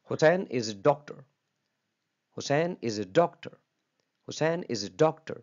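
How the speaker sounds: slow example with doctor made prominent; teacher reading a sample sentence slowly, leaning on doctor; slow classroom demo of the tonic word; stress on doctor. Shown as a demonstration. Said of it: "में आपने डॉक्टर को prominent किया".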